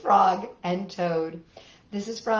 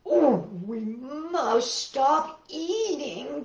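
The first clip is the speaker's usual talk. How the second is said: mock cry; 4 semitones higher, much slower than usual. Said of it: "cried Toad".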